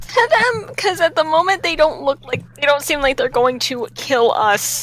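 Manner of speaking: character voice. Acted. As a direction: coax the crew to listen. Nick character voice.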